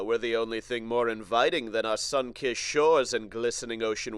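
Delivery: put-on loud, bright old-time ad read; 1950s advertiser voice. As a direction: sell it like a vintage tourism ad. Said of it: "the nineteen fifties advertiser voice".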